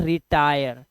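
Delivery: रिटायर drawn out with an 'eye' vowel; teacher models रिटायर syllable by syllable; pronunciation demo. Shown as a demonstration. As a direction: say रिटायर slowly, showing the 'ai'. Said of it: "इसी तरह से यहाँ पर".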